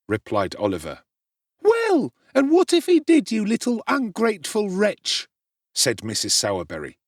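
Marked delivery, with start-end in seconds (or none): 1.6-5.3 very high, loud outraged matron; shrill scolding. A narrator's reading. Mrs Sowerberry berating Oliver, high outraged scolding. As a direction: spit out the insult. Furious woman berates boy.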